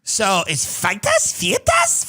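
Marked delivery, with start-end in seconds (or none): 1.3-2.0 mock South African accent. Shown as a demonstration. Podcaster mocking the South African pronunciation of "Feitas", squealing high. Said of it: "you wanna talk about accents that are horrible".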